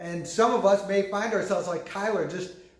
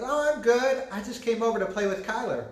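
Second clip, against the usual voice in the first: put-on higher kid voice, a touch giggly; a boy pretending to be his friend; imitating his son; 5 semitones higher than usual. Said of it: "And he goes".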